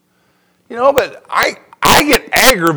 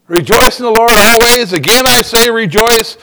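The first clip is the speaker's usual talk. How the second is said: sarcastic; 3 semitones higher, 4 dB louder than usual. Retold or imitated. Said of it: "you're thinking, Really?".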